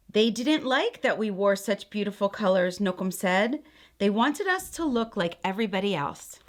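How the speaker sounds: gentle, expressive read-aloud; storybook reading. A narrator's reading. Aunt reading a picture book to children, gentle storytelling. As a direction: read it like a bedtime story for kids.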